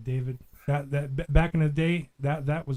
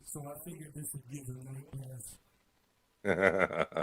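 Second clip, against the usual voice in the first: synthetic digital voice effect; processed robotic voice; 11 dB quieter than usual. Pretend. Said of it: "That doesn't sound like the way the robot spoke".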